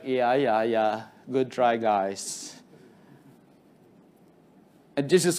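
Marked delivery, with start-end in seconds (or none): 0.0-2.6 mocking evil spirit. Evil spirit mocking the failing disciples, low and dismissive. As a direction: lower and softer, dismissive sneer of a spirit. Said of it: "the spirit was like".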